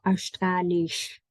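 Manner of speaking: Australisch with a German sh sound; mock the sh the German way. Teacher imitating the wrong German-style sh. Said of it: "That's German".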